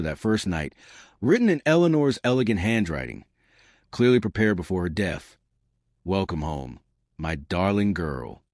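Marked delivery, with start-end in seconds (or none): 6.0-8.4 tender farewell. Acted. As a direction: read it like a mother's last gentle words. Reading Eleanor's loving farewell note.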